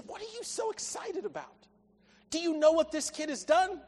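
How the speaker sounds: high-pitched, put-out questioning; acted brother, incredulous at the fuss; indignant older son. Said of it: "you hear it in the phrasing".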